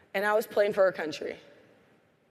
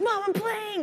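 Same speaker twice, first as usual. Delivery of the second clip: higher voice, thrilled news; excited; 11 semitones higher than usual. Retold or imitated. Calling mom to say she made the team, excited and higher. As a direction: blurt out the good news.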